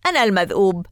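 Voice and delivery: loud manic cry; wild shout. A narrator's reading. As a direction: bellow it wildly. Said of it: "وهو يصيح مجددا".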